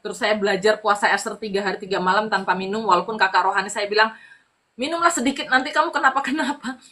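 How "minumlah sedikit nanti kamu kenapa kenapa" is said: lightly voiced, higher-pitched mentor; retold urging in a raised pitch; concerned mentor. Spiritual mentor urging a fasting believer to drink, concerned. Acted mentor worrying about the fast.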